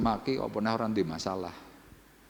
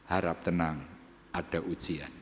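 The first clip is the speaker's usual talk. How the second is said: hushed reminder; 5 semitones lower, 7 dB quieter than usual. Shown as a demonstration. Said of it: "Ingat tadi kata-katanya".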